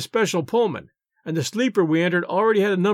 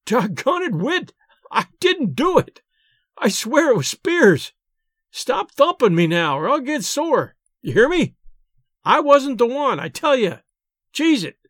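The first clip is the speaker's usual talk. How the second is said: higher, half scared, half angry pleading; laughing protest; 6 semitones higher than usual. A narrator's reading. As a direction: protest while being pummelled. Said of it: "half frightened, half angry ... laughing".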